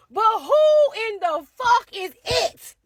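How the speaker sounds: stretched-out outrage; slow indignant punchline. Retold or imitated. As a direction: land the callback with disbelief.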